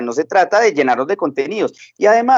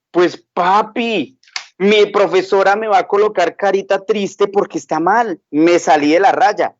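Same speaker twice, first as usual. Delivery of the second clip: put-on worried little girl; 3 semitones higher than usual. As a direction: drag it out like a fretful small girl. Daughter fears teacher's sad face.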